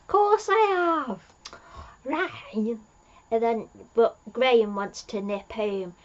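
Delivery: Yaz's reply. Retold or imitated. Yaz voiced replying to Ryan.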